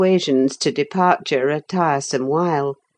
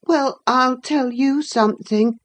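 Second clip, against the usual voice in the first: put-on boy voice; 8 semitones higher than usual. Linton taunts.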